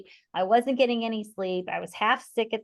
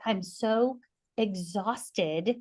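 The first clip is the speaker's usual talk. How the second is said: tearful exhaustion; much slower than usual. Retold or imitated. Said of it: "it was to tears".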